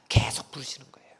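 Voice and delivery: hushed tender whisper; a secret the congregation must hear. Real, not acted. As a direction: breathe it almost silently. Whispered, God keeps calling.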